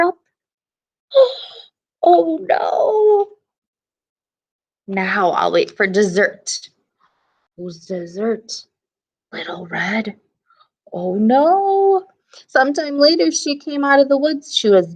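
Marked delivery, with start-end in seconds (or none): 4.9-10.2 menacing wolf. Acted. Wolf plots eating Red.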